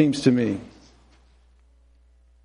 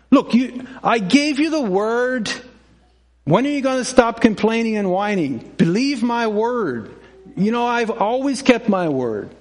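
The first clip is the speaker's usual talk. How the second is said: voice of God; 6 semitones higher than usual. Retold or imitated. God answering complaining people.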